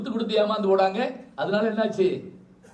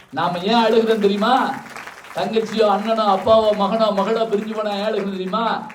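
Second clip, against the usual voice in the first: louder, pressing the audience; emphatic question; 6 dB louder than usual. Real, not acted. Speaker presses the audience on why we cry, louder. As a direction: challenge the crowd to answer.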